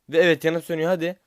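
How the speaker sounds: high, loud burst of hope as the box flashes; excited shout. Real, not acted. Gamer seeing the box flash, shouting excitedly high and loud. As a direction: yell it like the prize is finally coming.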